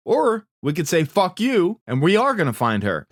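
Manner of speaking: defiant rallying. Retold or imitated. Recapper voicing a leader rallying the search party, defiant.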